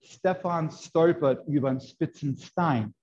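crisp northern High German with sharp S sounds, said slowly; careful textbook Hochdeutsch, sharp "spitzen Stein". Shown as a demonstration. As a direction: say "Stefan stolpert über den spitzen Stein" in clean northern German, every S sharp and slow. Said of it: "they would say".

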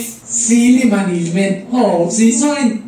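high, slow gibberish mimicking a reversed clip. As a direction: sound out the backwards audio. Imitating reversed audio.

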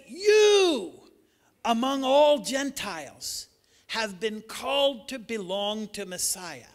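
emphatic shout. Retold or imitated. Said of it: "Paul says".

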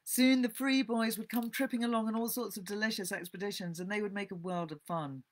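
measured, expressive storybook reading; story narration. A narrator's reading. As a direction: read the classic novel aloud to listeners. Resumes reading after explanation.

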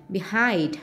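"behind" stressed on HIND; slow "behind", leaning on its last syllable; stress on second syllable. Shown as a demonstration. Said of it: "nhấn âm hai". ("behind" nhấn mạnh âm tiết thứ hai)

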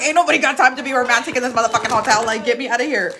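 laughing while complaining about the hotel; laughing rant. Retold or imitated. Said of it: "I'm like".

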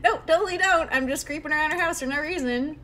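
put-on high, bouncy little kid teasing the player. Ghost kid teasing the startled player, high little kid voice. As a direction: play a cheeky ghost kid pretending to be normal. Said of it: "I'll just give it a little kid voice".

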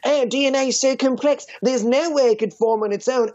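put-on accent, mocking impression; lightly mocked foreign-accented debater; Ray Comfort. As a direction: imitate a preacher making his big argument. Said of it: "entire first half of the movie being like".

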